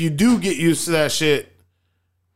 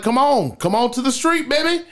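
mock taunt; 7 semitones higher than usual. Retold taunt inviting a fight.

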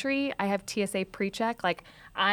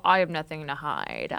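troll voice; 5 semitones lower than usual. Retold or imitated. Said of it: "my weird Twitter troll voice".

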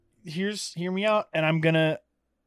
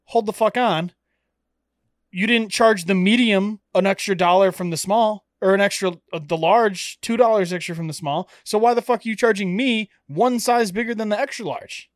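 half-hearted indignant rant at the shop; retelling a complaint with a touch of outrage; mock angry rant; 4 semitones higher, 4 dB louder than usual. Ranting at the shirt seller about XXL prices, mildly angry. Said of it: "I'm like".

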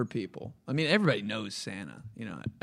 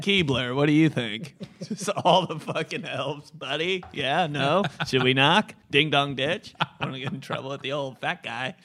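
christmas elf; 3 semitones higher, 7 dB louder than usual. Pretend. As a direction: play a cheeky elf, laughing. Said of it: "We got some pretty good elf voices".

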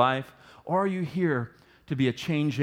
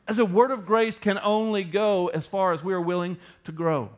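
said slow. Shown as a demonstration. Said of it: "let me say that slow again".

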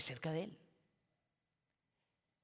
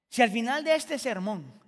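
raised, driving delivery of the line; louder pulpit emphasis; emphatic preaching; 4 semitones higher, 7 dB louder than usual. Acted. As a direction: press it out to the congregation. Preacher contrasts it with quieter repeat.

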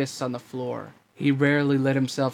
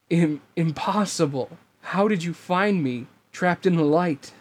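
stunned villain cry, raised; overacted anime dub; 4 semitones higher than usual. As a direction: gasp it out in disbelief. Villain shocked at defeat.

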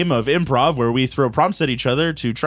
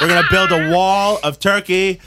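Donald Trump; 3 semitones higher, 4 dB louder than usual. Pretend. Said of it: "it's Donald Trump".

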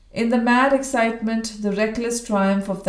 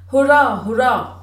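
cheering; 4 semitones higher, 6 dB louder than usual. Acted. Drunken cheering for old soldier.

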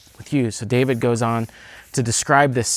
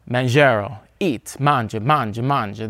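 booming sing song welcome. Retold or imitated. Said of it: "the thing that you will hear at the table".

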